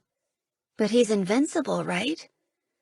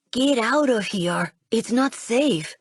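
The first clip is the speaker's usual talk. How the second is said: slow, louder, forceful warning; urgent warning; 3 semitones higher, 4 dB louder, slower than usual. Acted. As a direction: make her leave now. Boy warns her away.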